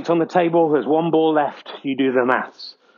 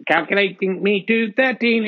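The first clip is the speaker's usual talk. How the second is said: stiff robotic readout. Acted. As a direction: mechanical computer scorekeeper. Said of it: "scores from Robot Voice".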